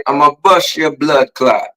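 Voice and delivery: slow mock threat in Jamaican accent. Shown as a demonstration. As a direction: model a Jamaican curse, drawn out. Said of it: "do the Jamaican accent".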